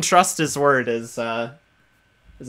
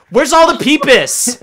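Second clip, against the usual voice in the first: raspy squeal, higher and louder; raspy voice with eagle shrieks; 10 semitones higher, 9 dB louder than usual. Acted. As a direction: rasp out the line like a shrieking eagle. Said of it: "in Griffin's voice".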